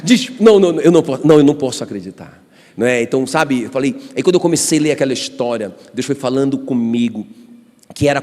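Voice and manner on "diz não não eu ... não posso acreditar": can't believe what he just read; disbelief. Retold or imitated. Pastor reacting to a verse he can't believe, stunned.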